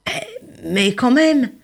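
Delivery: slow drawn-out grumbling protest; mild hammed-up reluctance; reluctant protest. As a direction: hold on, not so fast. Rainbow fish protesting.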